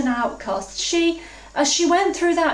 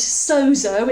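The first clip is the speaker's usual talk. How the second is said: Greek accent; 3 semitones lower than usual. Shown as a demonstration. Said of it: "in my best Greek accent".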